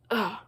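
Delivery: short disgusted ugh; mock huff of disdain; imitated scoff. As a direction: act out her scoff. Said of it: "and scoffed".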